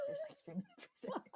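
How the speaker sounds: hushed offer of a treat; conspiratorial whisper. Retold or imitated. Indian mom tempting her frustrated son with ice cream, whispered. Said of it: "I was like".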